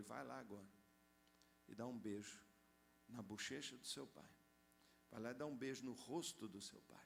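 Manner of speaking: God's gentle voice. Retold or imitated. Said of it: "Deus fala com ele".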